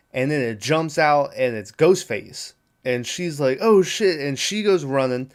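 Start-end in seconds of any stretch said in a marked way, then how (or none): 3.6-4.2 higher, louder retold yelp of alarm; mock alarm. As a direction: imitate a startled girlfriend. Girlfriend startled by killer, retold.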